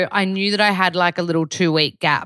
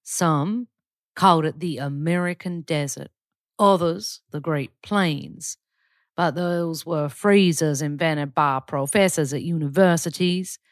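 put-on Southern accent. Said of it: "I'm gonna do it for you".

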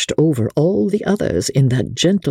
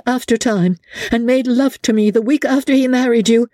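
much higher, scornful tirade; Becky scornful; 9 semitones higher than usual. A narrator's reading. Becky tearing down Amelia's husband, scornful tirade. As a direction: pour scorn on the dead husband.

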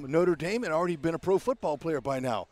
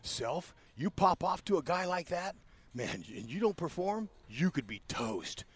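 muttering to himself; 6 dB quieter, slower than usual. Retold or imitated. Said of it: "talking to myself".

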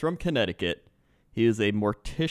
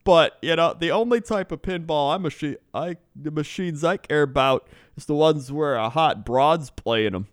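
higher, louder put-on Canadian accent; 5 semitones higher, 4 dB louder than usual. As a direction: ramble like a Canadian driver, accent hammed up. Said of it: "he's more talking like this".

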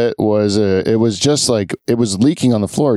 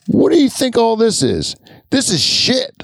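badly faked Black accent, pitched much higher; hammed-up imitation of the plumber's Black accent, raised high; 12 semitones higher than usual. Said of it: "I'm doing a bad black accent".

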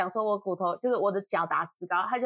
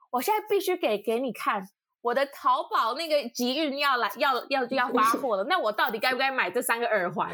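imitating anxious friend; 3 semitones higher than usual. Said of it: "他说什么吗？".

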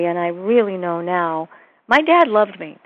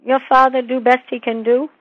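healer's broken-English question; 5 semitones higher, 5 dB louder than usual. Retold or imitated. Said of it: "she goes".

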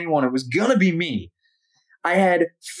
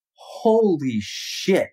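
hushed awe; 5 semitones lower, much slower than usual. Retold or imitated. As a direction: breathe it out, struck by the stars. Awe at the night sky.

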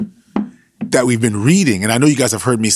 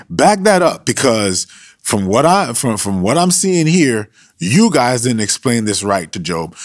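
streetwise Elihu stepping in, louder; hood version; 3 dB louder than usual. Retold or imitated. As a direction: brush them off like a guy from the block. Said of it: "I'm just giving you the hood version".

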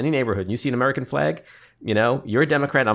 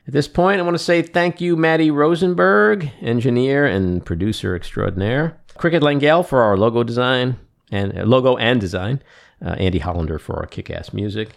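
podcast outro; 2 semitones lower than usual. Acted. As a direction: wrap up the show for listeners. Podcast outro sign-off read.

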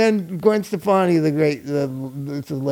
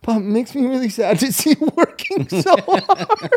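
imitating John; 5 semitones higher than usual. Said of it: "he goes".

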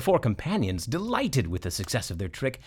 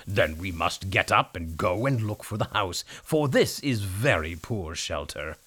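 donkey voice; 4 semitones lower than usual. Acted. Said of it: "the donkey said at once".

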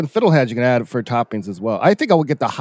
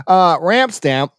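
relishing the name; 4 semitones higher, 4 dB louder, slower than usual. Real, not acted. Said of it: "I just love that name".

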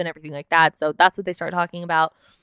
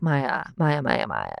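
mock scolding; 5 semitones lower, 6 dB quieter, slower than usual. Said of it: "And I'm like".

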